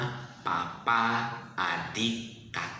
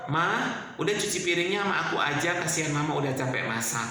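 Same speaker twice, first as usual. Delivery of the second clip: put-on helpful child voice; faster than usual. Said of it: "Kalau Mama udah capek".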